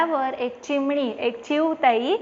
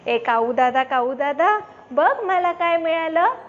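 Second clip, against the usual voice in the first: higher, bright-eyed little sparrow showing off; little sparrow Chiutai; 3 semitones higher than usual. Acted. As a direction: call the crow excitedly, like a child showing a treasure. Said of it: "ती म्हणते".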